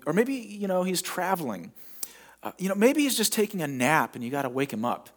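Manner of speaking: mild retold teasing; smart-aleck taunt. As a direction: needle them with fake helpfulness. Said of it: "he taunts them".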